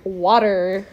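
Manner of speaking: low American "water" with a hard R; mocking American accent. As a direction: mimic an American saying "water". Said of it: "That's what you sound like".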